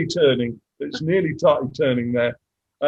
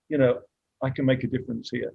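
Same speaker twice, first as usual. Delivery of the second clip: getting emotional; 2 semitones lower than usual. Real, not acted. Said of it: "Sorry, I'm getting emotional".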